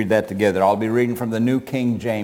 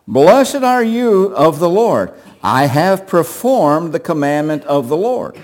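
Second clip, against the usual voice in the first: Saul boasting; 4 semitones higher, 4 dB louder than usual. Acted. Preacher voices Saul's boast.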